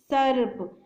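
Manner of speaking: सर्प drawn out slowly on the r; teacher's slow सर्प, r held; r sound in सर्प shown. Shown as a demonstration. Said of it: "स के बाद र की साउंड है ना".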